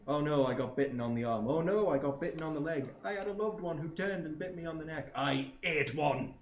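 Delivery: hammed-up mock woe, rising in pitch; mock lament. Gamer mocking zombie-bite victims, hammed-up lament. Mock tales of getting bitten.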